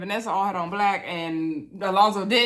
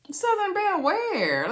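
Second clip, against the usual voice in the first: high, slow, mocking disbelief; incredulous disbelief; 10 semitones higher, slower than usual. Recapper mocking a cast member's claim, high incredulous squeal. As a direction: squeal it out like you can't believe it. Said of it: "And I was like".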